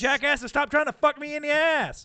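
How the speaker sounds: high, loud frantic warning; hammed-up mother-in-law panicking over the speakerphone; shrill-free loud urgent pleading; panicked wife. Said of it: "and it was like".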